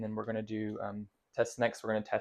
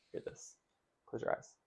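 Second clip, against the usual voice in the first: whispering; 10 dB quieter than usual. Real, not acted. Exam instruction whispered.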